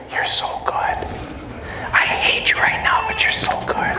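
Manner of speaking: whispered, cooing praise to a dog; hushed sweet talk hiding annoyance; fake-sweet praise. Shown as a demonstration. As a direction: whisper sweetly whatever the words say. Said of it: "Trick 'em".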